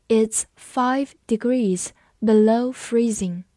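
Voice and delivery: slow reading in separated word groups; 慢速示范朗读. Shown as a demonstration. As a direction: read slowly, pausing after each word or two. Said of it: "我们慢读一遍". (慢慢朗读，词间停顿)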